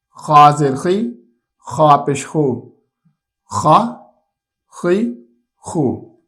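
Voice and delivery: slow, careful syllables, ع and ح from the throat; slow spelling drill. Shown as a demonstration. Teacher modelling the throat letters for a child, slow and careful. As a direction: spell each letter slowly, then say the short syllables cleanly. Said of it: "ہجے اور رواں دونوں طریقے سے".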